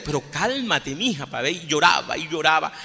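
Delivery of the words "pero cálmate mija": put-on quiet the crying girl gently; soothing.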